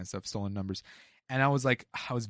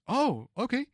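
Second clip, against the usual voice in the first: high jump on the oh; mock surprise turning to approval; surprised; 5 semitones higher than usual. Worker imitating the loss prevention boss, mock surprise. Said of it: "he was like".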